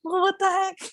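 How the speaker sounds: playful "hey, no fair" outburst; mock indignation. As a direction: act out being baffled by the teasing. Retelling her protest at teasing.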